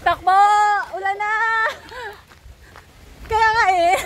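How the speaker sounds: out of breath from running; running through the rain; while running. Real, not acted. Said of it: "Andiyan na ulan!".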